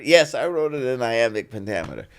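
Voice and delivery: retold unfazed yes; matter-of-fact confirmation. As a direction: answer the doubter firmly and briskly. His retold confirming answer.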